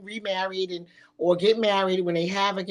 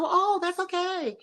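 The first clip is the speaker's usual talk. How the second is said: high, slow, sugary fake-nice voice; mock polite acceptance; 8 semitones higher, slower than usual. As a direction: pretend it's fine while seething.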